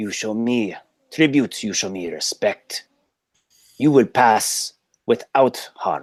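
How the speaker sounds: mystic-sounding voice in broken English. A game master voices the Badlands mystic addressing the party: Badlands mystic, broken English. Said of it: "I, mystic of the Badlands. / he stares you right into the eye and he says, / I serve the great Yenagu. / They hunt in my land and give me none of this meat. And so I request they meat. You can bring t".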